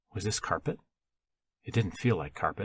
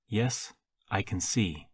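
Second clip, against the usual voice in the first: slow reply leaning on "see"; pause, then put the emphasis on "see"; measured, with "see" stressed at the end; slower than usual. A narrator's reading. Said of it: "She emphasized the last word".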